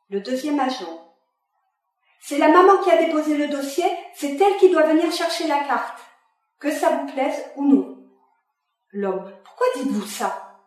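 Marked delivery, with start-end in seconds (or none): 2.2-8.0 sèche et autoritaire. Acted. Second agent lays down the rule.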